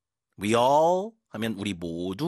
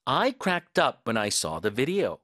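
slow model reading; much slower than usual. Shown as a demonstration. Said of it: "빵 터졌다 해볼게요".

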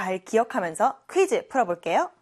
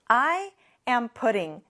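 "I put my bag down" said word by word; very slow model; much slower than usual. Shown as a demonstration. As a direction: model the sentence slowly for repeating. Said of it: "다음 문장 볼게요". (따라 하도록 아주 천천히)

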